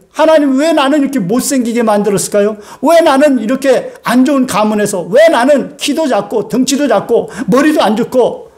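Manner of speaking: a mild whiny complaint to God; complaining believer. Retold or imitated. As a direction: lightly voice a discontented churchgoer. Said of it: "어떤 분이 그러게요".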